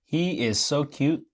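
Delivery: measured, deliberate character voice; Candy voice. Acted. Candy gushing about Dipper, measured character voice. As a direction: deliver it word by word, in character. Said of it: "That's how Candy talks".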